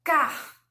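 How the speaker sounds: "Car" alone with a pulled, audible final R; drawn-out R. Shown as a demonstration. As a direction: show off the R ending of "Car". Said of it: "Esse puxadinho". ("Car" com o R puxadinho)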